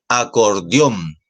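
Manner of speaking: acordeón drawn out, weight landing on the last syllable -ón; teacher's slow acordeón, stressed at the end; stress on final syllable. Shown as a demonstration. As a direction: say acordeón slowly and firmly, leaning on the ending. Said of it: "Ahí la fuerza de voz está en".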